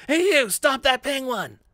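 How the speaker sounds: high, loud shouted command; Misato. Shown as a demonstration. Voice demo of a woman chasing a penguin, commanding. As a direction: call out high and urgent, slowing on the order. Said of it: "That's kind of Misato's voice".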